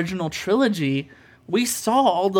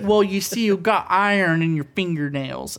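put-on Brooklyn accent; 3 semitones higher than usual. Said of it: "some weird Brooklyn accent or something".

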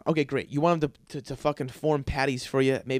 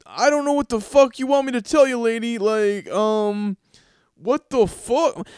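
louder, higher fed-up rant; mock-angry butcher snapping at the mom; exasperated; 7 semitones higher, 6 dB louder than usual. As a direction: let the frustration boil over.

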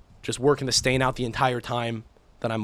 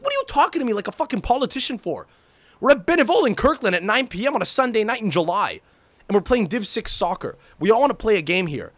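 higher-pitched, indignant pleading; exasperated retold rant; 6 semitones higher than usual. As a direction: argue with the ref in mock outrage. Acted argument with the referee.

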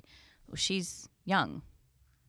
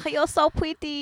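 mock Asian accent; 11 semitones higher, 8 dB louder, slower than usual. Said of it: "saying shit in Asian accents".

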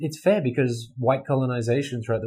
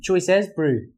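higher-pitched New Zealand accent demo; Kiwi accent; 4 semitones higher, slower than usual. Shown as a demonstration. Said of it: "Can you do the Kiwi accent?".

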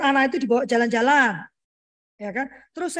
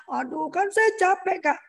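higher, dragged-out whine; mock weary complaint; 5 semitones higher, slower than usual. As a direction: imitate a tired parent grumbling. Imitates a tired complaining parent.

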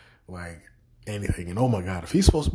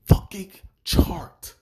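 cracking high exclaim; 10 semitones higher, 7 dB louder, slower than usual. Real, not acted. Ranting about security.

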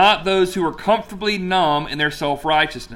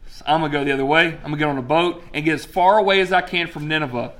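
hurried Jonah; faster than usual. Retold or imitated. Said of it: "And Jonah says".

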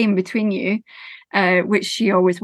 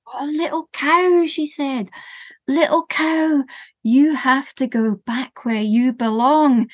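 higher, lightly voiced old woman; old woman gently sending the cow home; 4 semitones higher, slower than usual.

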